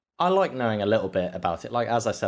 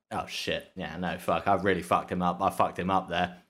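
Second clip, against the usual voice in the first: imagined regret; 3 semitones lower than usual. Retold or imitated. Voicing the tackler seeing the replay, understated guilt. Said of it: "saw it on replay and was like".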